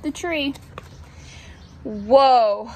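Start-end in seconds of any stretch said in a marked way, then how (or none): 1.8-2.7 low, louder groaned "whoa"; groaning tortoise. A narrator's reading. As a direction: groan it out as a worried storybook tortoise. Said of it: "groaned the tortoise".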